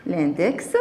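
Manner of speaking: index with an audible ks ending; final X pronounced. Shown as a demonstration. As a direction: sound the X of index. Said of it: "le X se prononce". (index avec le X final prononcé)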